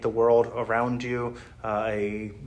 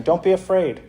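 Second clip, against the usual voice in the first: higher, chirpy angel voice; mock angel voice; 6 semitones higher than usual. Many-eyed angel greeting a terrified person, mock cheery. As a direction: play it as a cheery, oblivious monster angel.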